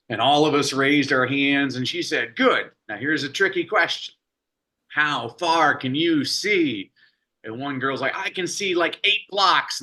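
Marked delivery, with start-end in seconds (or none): 2.4-6.9 higher teacher voice, slowing on the question; teacher asking a tricky question. Retold or imitated. 8.2-9.8 put-on higher child voice, unsure and slow; little girl answering.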